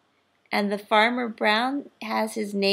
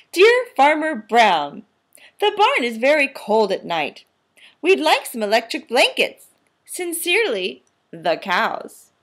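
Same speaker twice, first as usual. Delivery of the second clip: letter voice; 2 semitones higher, 5 dB louder than usual. Acted. Cows' letter read aloud.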